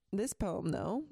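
words pushed out around a burp. Real, not acted. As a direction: talk through a small belch. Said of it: "pardon me, I'm burping".

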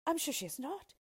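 high, flustered princess voice; indignant royal denial; protesting princess. A narrator's reading. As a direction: protest in disbelief, starting high and loud, easing at the end. Princess denies the betrothal.

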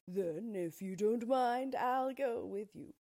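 a hesitant big cat pleading, slowed and lifted; timid Cowardly Lion. A narrator's reading. Lion speaks again.

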